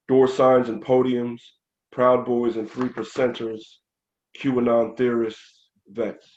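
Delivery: measured spoken-word recital, phrase by phrase; poem reading. Acted. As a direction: read your protest poem aloud with deliberate pauses. Reads own political poem.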